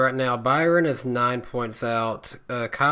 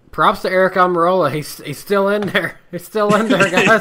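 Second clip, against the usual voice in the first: excited cheer; 6 semitones higher, 8 dB louder than usual. Real, not acted. Cheering driver still in.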